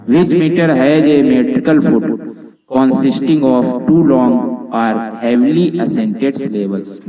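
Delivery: slow, deliberate reading of an English quiz question. Shown as a demonstration. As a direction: read the question out slowly and clearly. Teacher reads quiz question aloud.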